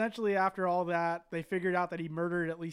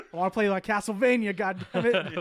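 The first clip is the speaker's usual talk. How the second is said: louder, laughing mock whine of the killer; mock tantrum; 2 semitones higher, 6 dB louder than usual. Podcaster mimics the killer demanding Castlevania, mock louder tantrum. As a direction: whine it like a spoiled prisoner denied his game.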